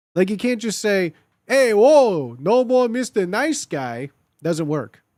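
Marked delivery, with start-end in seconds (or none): 1.4-4.0 slow, drawn-out put-on Italian accent. Arguing an Italian accent doesn't make any line funny, the speaker demonstrates an Italian accent. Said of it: "saying anything with an Italian accent".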